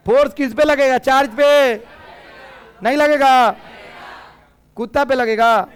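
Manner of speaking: loud classroom quiz; loud quizzing. Real, not acted. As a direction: fire the questions at the students. Teacher quizzing loudly.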